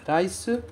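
rice with a tapped R, rai-su; Japanese-style rice. Shown as a demonstration. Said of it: "eu chamo a atenção para esse R inicial". (Rice com R japonês batido)

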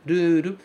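"ruru," with a tapped R and a long final u; Japanese ruru. Shown as a demonstration. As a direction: model "ruru," with flap Rs and a long u. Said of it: "É o ra do arara". ("ruru" com R batido e u longo)

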